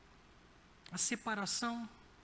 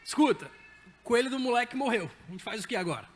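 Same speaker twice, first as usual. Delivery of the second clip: louder, urgent mock alarm; urgent call; 7 dB louder, faster than usual. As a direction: retell the panicked phone call, louder. Urgent call to psychologist friend.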